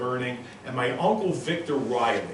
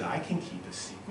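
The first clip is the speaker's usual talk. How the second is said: put-on soft whisper, kid promising; whispered plea; 11 dB quieter than usual. Boy begging his uncle for the secret, whispered. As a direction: breathe it like a child sharing a secret.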